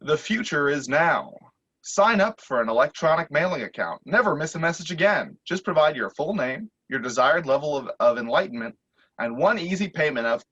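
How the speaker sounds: recorded phone ad voice; lightly voiced robocall pitch; automated message. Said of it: "an automated message start".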